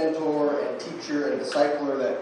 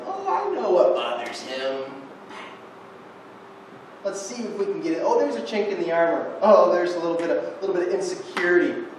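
scheming enemy voice; 3 semitones higher, 4 dB louder than usual. Retold or imitated. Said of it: "an enemy ... that's like".

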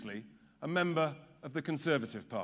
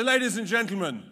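loud call to the crowd; rally call; 4 semitones higher, 3 dB louder than usual. Real, not acted. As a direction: rouse the hall.

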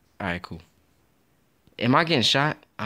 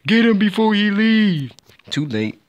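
laughing; 10 semitones higher, 6 dB louder than usual. Real, not acted. Laughing while chasing target.

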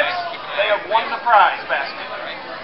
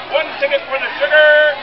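raffle caller; 3 semitones higher than usual. Real, not acted. Raffle draw announcement.

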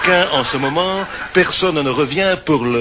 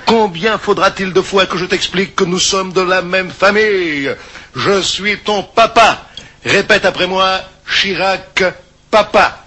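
kindergarten teacher voice; 3 semitones higher than usual. Acted. Coaching the baby to repeat.

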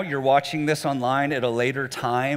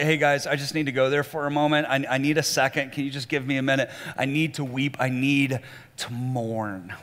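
softer, lower, asking for a moment alone; quiet plea; 4 semitones lower, 6 dB quieter than usual. Retold or imitated. Jesus asking for space to grieve.

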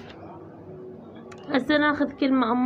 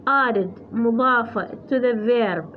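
slow text reading; much slower than usual. Shown as a demonstration. Slowly reads the English text.

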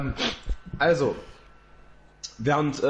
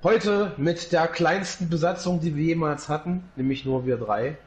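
captain announcement, slowed. Acted. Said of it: "Hier spricht Ihr Kapitän".

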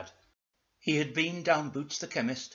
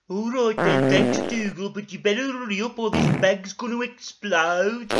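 loud, high and hurried along; raised-pitch mock desperation; urgent character voice; 8 semitones higher, 10 dB louder than usual. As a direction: plead loudly, about to burst. Ermintrude urgently answers Dougal.

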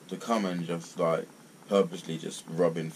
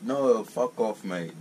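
slow, higher and louder fuck off; angry fuck off; 5 semitones higher, 4 dB louder, much slower than usual. Real, not acted. Ranting at people dragging God in, slow angry dismissal. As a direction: spit it out slowly and hard. Angry rant about religion.

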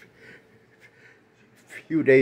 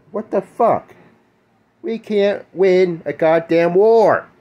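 shaking with anger; 5 semitones higher than usual. Real, not acted. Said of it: "why I'm shaking like this".

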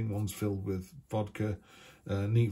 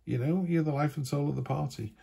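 disbelieving surprise; 6 semitones higher than usual. Retold or imitated. People reacting to a cheerful friend's sadness, with amazed disbelief. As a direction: pitch leaping much higher on You, amazed. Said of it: "people go".

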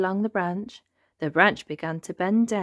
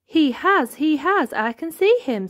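high, urgent exclaiming; excited; 9 semitones higher, 5 dB louder than usual. A narrator's reading. Elephant thinks he sees Wilbur in the pond, excited. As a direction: blurt out the sighting. Elephant spots the supposed victim.

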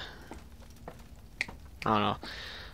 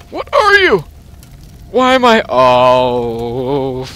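acted panic; 9 dB louder than usual. Reading game character's panic.

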